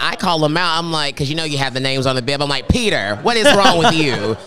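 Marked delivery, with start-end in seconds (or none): 2.7-4.4 playful exasperated telling-off, louder; teasing, emphatic reproach; mock scolding. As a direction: call them out in mock disbelief. Acted telling-off of a runner.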